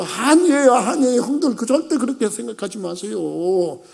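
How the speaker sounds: mildly impassioned plea in a preacher's cadence. Acted. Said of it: "그때 형들을 꽉꽉 붙잡고 울었어요".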